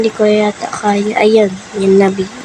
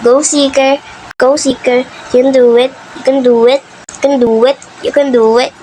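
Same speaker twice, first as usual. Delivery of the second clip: teasing cheer; 3 semitones higher than usual. Acted. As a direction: cheer the seeker on like a fan. Cheering on the seeker.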